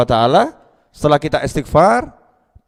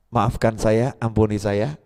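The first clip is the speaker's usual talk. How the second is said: soft, lower pleading to God; humble plea; 7 semitones lower, 6 dB quieter, slower than usual. Acted. Preacher acting a servant begging forgiveness softly. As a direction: beg forgiveness quietly, head bowed.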